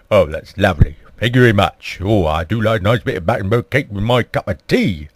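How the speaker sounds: lightly put-on workman's accent; the Queen talking like a workman; a hint of low, workmanlike accent; butch workmanlike accent. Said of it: "putting on such a butch, workmanlike accent".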